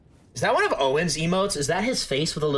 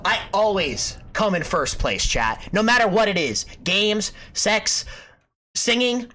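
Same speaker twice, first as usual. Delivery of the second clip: cocky bragging; 5 semitones higher than usual. Acted. Boastful bragging bit.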